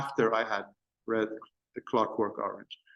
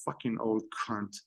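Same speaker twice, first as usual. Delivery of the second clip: softer, a fake Scottish aside under the breath; under his breath; 3 semitones lower, 8 dB quieter than usual. Begbie curses the drunk old man under his breath, softly. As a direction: drop the voice low in volume, fake Scottish, like an aside. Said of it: "Then under his breath".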